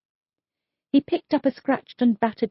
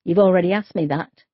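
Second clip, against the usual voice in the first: a touch louder, hardening with irritation; 6 dB louder than usual. Acted. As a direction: clip him short, he's done with this. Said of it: "his voice hardening".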